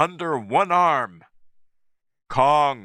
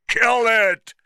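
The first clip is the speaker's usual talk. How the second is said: higher, loud harsh order; shouted; 10 semitones higher, 4 dB louder than usual. A narrator's reading. Captain ordering his men to kill the ape, loud. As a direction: bellow the command. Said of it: "shouted Engelhorn".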